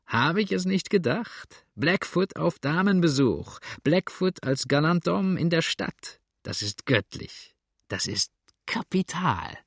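high, teasing delight that slows and drops; gleeful, drawn-out mockery without a real laugh; amused crowing. A narrator's reading. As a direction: relish it slowly, as if close to laughter. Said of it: "lachte Sander".

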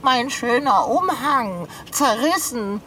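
slow, tearful lament; drawn-out mock-tragic howl; wailing. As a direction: wail over a ruined treasure. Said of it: "Heule nicht. Das klingt furchtbar".

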